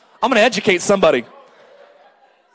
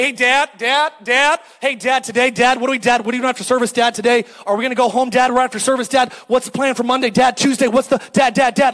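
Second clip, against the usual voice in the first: nagging daughter; 2 semitones higher, 3 dB louder than usual. Retold or imitated. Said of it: "my daughter doesn't say".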